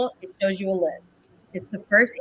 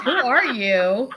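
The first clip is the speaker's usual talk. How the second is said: mock-puzzled question; 4 semitones higher, 4 dB louder, much slower than usual. Laughing, acting out her reply.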